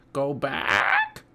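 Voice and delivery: squawking, parrot-like voice. As Annie urges Jack to leave the treasure chest, Polly calls out; squawking Polly voice. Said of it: "squawked Polly".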